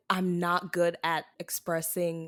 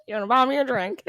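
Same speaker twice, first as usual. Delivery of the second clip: mocking country accent; 5 semitones higher, 5 dB louder, faster than usual. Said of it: "Why are you country?".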